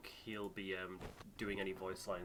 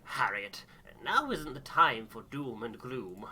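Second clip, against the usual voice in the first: slower, firm chiding of his wife; a light stern husband voice; mild stern husband; 2 semitones higher, 9 dB louder, slower than usual. Acted. Mister Gloss scolds wife.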